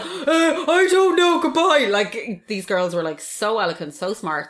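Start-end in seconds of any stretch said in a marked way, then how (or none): 0.0-1.9 higher, laughing; mock flustered goodbye; flustered laughing exit. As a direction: back out awkwardly, giggling. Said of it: "I was like".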